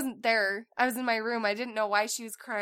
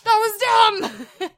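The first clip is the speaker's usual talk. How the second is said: slow, high and loud self-scolding; mock scold; 9 semitones higher, 9 dB louder, slower than usual. Mom scolding her own thought, slow and loud. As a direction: drag out the scold like it's obvious.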